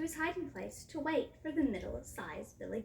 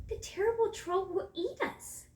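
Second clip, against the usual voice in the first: higher-pitched worried goat; worried little goat; 8 semitones higher than usual. A narrator's reading. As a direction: voice the smallest goat's worry, pitched up. Littlest goat fears the troll.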